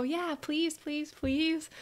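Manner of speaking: put-on high, pleading little-kid voice; begging child. Child begs mom for candy, pleading. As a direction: beg mom like a small child. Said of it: "And I go".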